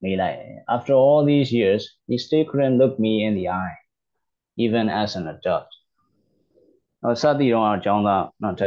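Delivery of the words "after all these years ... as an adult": slow, careful reading of the English text for learners; slow read-aloud. Shown as a demonstration. A teacher slowly reading the English story to learners. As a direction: read each word out slowly and clearly.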